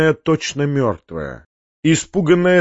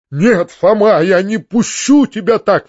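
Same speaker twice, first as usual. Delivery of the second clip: higher, louder outcry; anxious raised plea; exclaiming; 6 semitones higher, 4 dB louder than usual. A narrator's reading. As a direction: refuse to let him go. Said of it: "вскричал дядя".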